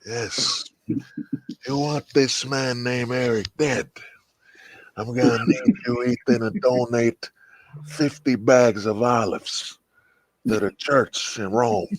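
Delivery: mock Godfather. S0 voices Vito as Godfather.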